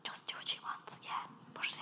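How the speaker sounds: hushed mock official; mock whispered go-ahead. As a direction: whisper it like a quick giving-in. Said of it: "they're like".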